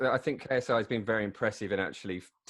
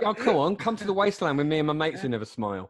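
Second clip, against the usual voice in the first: whiny invitation; 5 semitones higher, 4 dB louder than usual. Retold or imitated. Mocking Logan inviting to wasteland.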